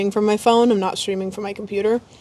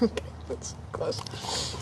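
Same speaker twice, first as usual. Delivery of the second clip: laughing; 4 semitones lower, 14 dB quieter, slower than usual. Real, not acted. Laughing at dog's trick.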